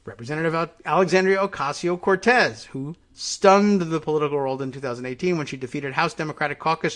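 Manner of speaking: reading an article out with emphasis; news read-aloud. Real, not acted.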